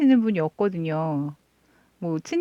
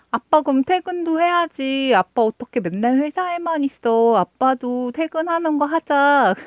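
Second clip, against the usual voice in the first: put-on much higher, louder sing-song child-talk; playful coaxing; 7 semitones higher, 5 dB louder than usual. Aunt coaxing her niece to let dad come home, high sing-song.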